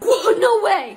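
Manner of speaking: high, loud disbelief; amazed outburst. Acted. Reacting to a pricey wish on the Christmas list, amazed outburst. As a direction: burst out in astonishment.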